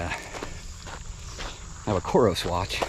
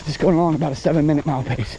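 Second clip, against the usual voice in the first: out of breath; 8 semitones higher, 6 dB louder than usual. Real, not acted. Talking while running at pace.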